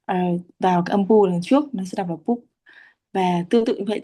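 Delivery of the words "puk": "puk" as pu closed by the final consonant; joined syllable. Shown as a demonstration. Teacher showing how to join the sounds, joined syllable. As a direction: join pu straight into the closing k in "puk". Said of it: "nối cái âm B ở đằng sau".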